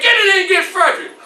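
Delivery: quick, high shouted command; screamed order. Acted. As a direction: rush out an urgent summons. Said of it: "screams out to her".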